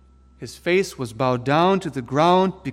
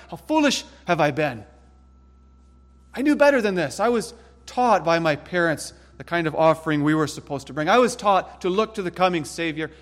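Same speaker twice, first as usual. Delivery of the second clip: voicing a repentant Cain; 3 semitones higher than usual. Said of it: "He should have been seething in wrath toward himself".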